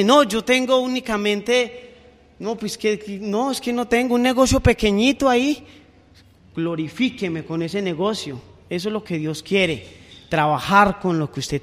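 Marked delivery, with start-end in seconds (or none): 0.0-5.6 higher, fumbling believer excusing himself; mock sheepish excuse; hesitant excuse. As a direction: hedge and stall about the little shop.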